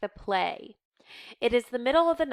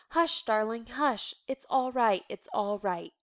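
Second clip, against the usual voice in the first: soothing hush. Acted. Mother comforting child.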